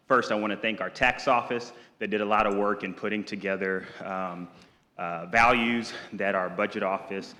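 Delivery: winded, talking between breaths; short of breath after rushing in. Real, not acted. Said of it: "sorry, I'm out of breath".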